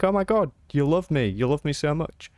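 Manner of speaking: high, loud gushing doggy voice; be the dog overjoyed at the loving tone; excited dog. Pretend. Dog owner voices the pet's overjoyed reply, high and loud. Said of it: "your dog will be like".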